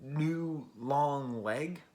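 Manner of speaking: very slow, drawn-out baffled question; puzzled questioning. Acted. Listener pondering the ambiguous album title, puzzled and slow. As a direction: stretch each word, rising in doubt. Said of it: "even that title, you're just like".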